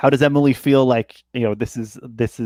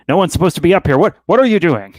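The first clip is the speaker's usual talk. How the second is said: put-on angry Austrian old man, higher and louder; incensed Austrian old man; 6 semitones higher, 5 dB louder, much faster than usual. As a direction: bark it out in an Austrian accent, outraged at the trespasser. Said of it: "Uh, Austrian".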